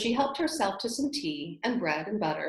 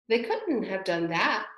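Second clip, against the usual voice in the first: gentle. Acted. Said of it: "Alice gently remarked".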